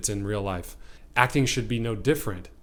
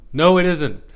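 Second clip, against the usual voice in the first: firm, raised-voice rebuttal; emphatic contradiction; 5 semitones higher, 9 dB louder than usual. Acted. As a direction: insist loudly, pitch somewhat up. Repeats the contradiction.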